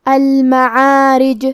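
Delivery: المعارج ending with a bounced, echoing jeem; qalqalah on jeem. Shown as a demonstration. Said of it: "جیم کو ہلاتے ہوئے یہ کلمہ کو پڑھیں گے". (المعارج کے جیم پر قلقلہ)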